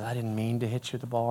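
soft, low, gentle apology; quietly contrite, kept low; retold sincere apology. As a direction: voice a boy humbly apologizing. Boy's retold apology continues.

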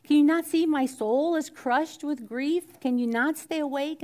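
a hint of Jesus begging his friends; Jesus pleading. Jesus asking sleeping disciples to stay awake, mild anguish. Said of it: "he says".

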